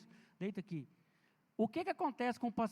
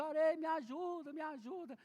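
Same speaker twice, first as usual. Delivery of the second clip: mock child's cry for help; 7 semitones higher than usual. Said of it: "eu escutei o grito".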